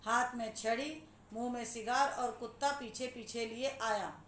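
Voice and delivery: emphatic reading in separate chunks; disjointed unpunctuated reading. Shown as a demonstration. Teacher showing students a badly punctuated sentence, disjointed reading. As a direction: read it piece by piece without sense of the sentence. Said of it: "सही तरीके से चिन्हों का प्रयोग नहीं हुआ है".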